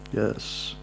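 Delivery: breathy whispered yes. Real, not acted. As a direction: whisper it to yourself. Whispered aside.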